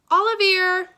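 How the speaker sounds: high, loud call of a name. A narrator's reading. Mister Sims calls his fleeing cat, shouting. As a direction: shout after a runaway pet. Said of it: "Mister Sims called out".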